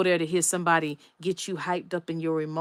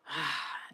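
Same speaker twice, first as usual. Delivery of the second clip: sigh; 3 semitones lower, 9 dB quieter than usual. Retold or imitated. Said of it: "I was just like".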